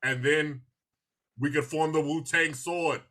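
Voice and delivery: halting, drawn-out delivery with pauses; a light imitation, phrase by measured phrase; a rapper. Co-host mocking how a show's character talks, lightly imitated halting speech. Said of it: "Rizza is talking extremely slow".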